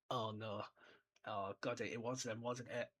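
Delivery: hushed, dread-filled muttering; quietly, like the penny has just dropped; mock panic. Vernon realising it was them, hushed panic.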